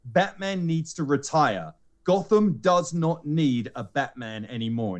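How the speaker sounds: mildly assertive news reporter; firm, spaced-out statements for a verdict. Retold or imitated. News reporter denouncing Batman to the public, assertive. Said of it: "he's very assertive".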